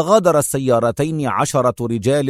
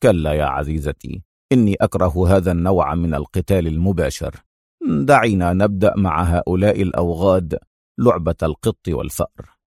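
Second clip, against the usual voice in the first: lower, mild mocking calm; sarcastic smile; 6 semitones lower than usual. A narrator's reading. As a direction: lower man's voice, wry and amused. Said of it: "ابتسم أدهم في سخرية".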